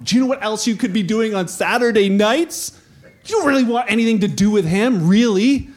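building, emphatic disbelief; incredulous. Acted. Doubters warn Bart about losing Saturday nights, incredulous. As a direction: challenge him to reconsider.

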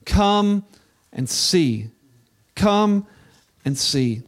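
loud, spaced-out call. Acted. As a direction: call out each come and see. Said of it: "he says".

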